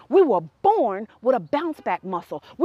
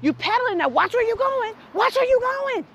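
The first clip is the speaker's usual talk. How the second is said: calling out; 8 semitones higher than usual. Retold or imitated. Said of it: "I was like".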